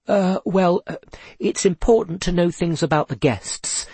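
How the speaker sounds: hesitant nervous stammer. Acted. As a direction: stumble over the start. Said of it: "stammered Seth".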